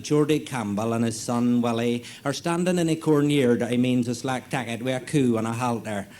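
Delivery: lightly put-on radio continuity announcer; radio serial announcer. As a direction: introduce the next episode of a farming serial.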